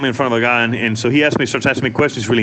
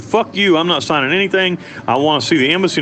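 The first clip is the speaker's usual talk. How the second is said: retold screaming; 4 semitones higher than usual. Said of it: "screaming, you know".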